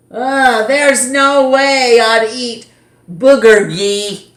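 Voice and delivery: mock the food with a nasty pun; disgusted mocking girl. Madison mocks Justin's food.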